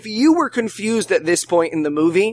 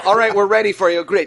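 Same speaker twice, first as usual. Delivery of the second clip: ordinary talk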